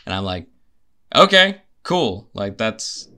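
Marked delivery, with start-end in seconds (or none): 1.2-2.3 high, loud, drawn-out "sure, whatever"; mock enthusiasm. Replying to theatre fans' selling point, exaggerated unconvinced acceptance. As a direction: stretch it out, pitched up, humouring them. Acts out underwhelmed reply to pitch.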